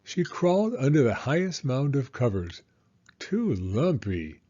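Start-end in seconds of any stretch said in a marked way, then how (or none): 3.2-4.4 low, slow little grumble; grumbling. Acted. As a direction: grumble it, unimpressed and a bit sleepy. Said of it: "she grumbled".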